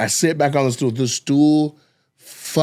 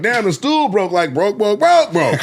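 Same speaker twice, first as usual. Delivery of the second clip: mock-shocked repetition; 5 semitones higher than usual. Comic retelling his stage reaction, mock-shocked and rising. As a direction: build up the repeats in disbelief. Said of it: "I'm like".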